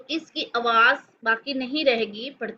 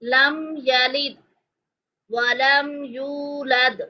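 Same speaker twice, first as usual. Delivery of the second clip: drawn-out chanted recitation; long, even, melodic vowels; slow Quranic recitation; much slower than usual. Shown as a demonstration. Teacher reciting slowly for students. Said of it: "recitation demo".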